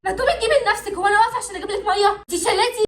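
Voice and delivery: annoyed snapping. Acted. Sisters quarrel over water.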